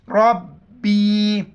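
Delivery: slow استغفر اللہ with a thick ra and full اللہ; heavy ra. Shown as a demonstration. Teacher modelling the heavy letters for pupils, slow careful recitation. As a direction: draw it out, making ra and اللہ heavy. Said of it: "را کو موٹا پڑھیں گے".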